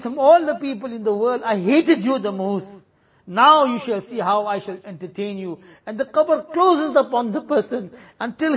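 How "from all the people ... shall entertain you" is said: a hint of a menacing, hateful grave. Grave greeting the sinner, mildly menacing. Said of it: "the qabr says".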